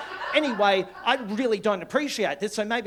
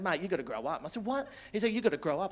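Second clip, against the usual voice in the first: stern mate; 6 dB quieter, faster than usual. Retold or imitated. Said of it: "he takes me aside and said".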